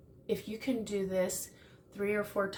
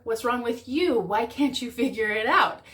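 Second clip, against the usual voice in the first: louder accusing exasperation; frustrated blame; 3 semitones higher, 6 dB louder than usual. Retold or imitated. Partner blaming the other one, louder and accusing. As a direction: throw the blame back, exasperated.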